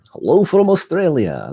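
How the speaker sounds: a high, failed try at an Australian accent; mock Australian greeting; Australian accent attempt. Shown as a demonstration. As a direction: say hello the Aussie way, badly. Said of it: "That was not Australian accent at all".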